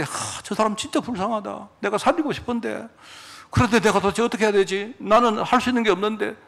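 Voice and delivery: lightly acted pity, musing helplessly to oneself. Preacher voices a worker facing suffering people, with helpless pity.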